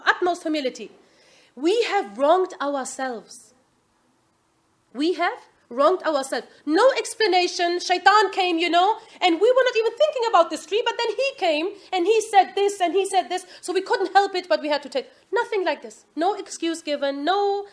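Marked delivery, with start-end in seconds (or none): 1.6-6.5 slow, humble confession; most humbly. Retold or imitated. Adam and his wife confessing to their Lord, slow and humble. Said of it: "So most humbly". 7.8-14.5 mock excuse. Mocking an imagined excuse.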